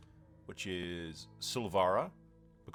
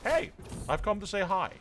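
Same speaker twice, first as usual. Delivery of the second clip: cheery announced greeting; 10 semitones higher than usual. Acted. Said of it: "and like".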